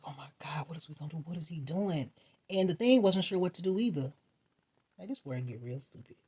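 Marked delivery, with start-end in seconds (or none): 0.1-2.1 soft, scared whisper; whispered panic. Retold or imitated. Friends frozen by the gorilla, whispering. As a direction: hiss it so the gorilla won't hear. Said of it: "we was like".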